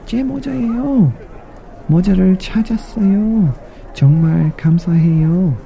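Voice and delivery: very high, fast happy mouse; very high joyful mouse in Korean; overjoyed mouse. Acted. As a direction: gush it out with joy. Mouse finds her hat.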